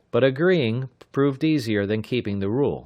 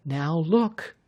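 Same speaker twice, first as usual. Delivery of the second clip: severe; 8 semitones higher than usual. A narrator's reading. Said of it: "Sandy said severely".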